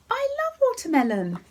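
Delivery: high, delighted gush; sudden high gush of delight; excited squeal. Real, not acted. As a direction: squeal with delight over watermelon. Excited aside on flavour list.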